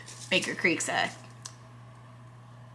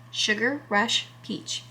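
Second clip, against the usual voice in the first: "Sugar Rush Peach" said slowly and softer, lingering on "Sugar"; softly savored name; 7 dB quieter, slower than usual. Real, not acted. Repeating a pepper name she loves, slow and soft.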